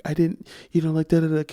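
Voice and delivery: high-pitched imitation of a tearful teacher; mock crying. Retelling the teacher's tearful plea, mock crying. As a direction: lightly mimic a weepy whine. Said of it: "but she's crying".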